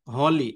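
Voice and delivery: হলি with a clearly sounded H at the start. Shown as a demonstration. Teacher shows students when H is heard, H voiced in হলি. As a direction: pronounce the "h" that opens হলি. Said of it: "এইবার দেখেন হয়ের উচ্চারণ হচ্ছে".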